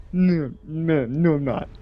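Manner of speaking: imitated drunken refusal; drunk mumbled refusal. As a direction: slur it like a stubborn drunk. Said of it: "he's not saying words".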